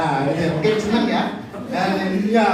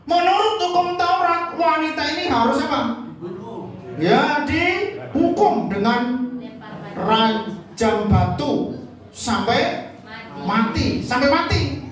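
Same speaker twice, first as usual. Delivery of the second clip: accusing crowd; 4 semitones higher, slower than usual. Acted. Crowd voiced accusing the woman.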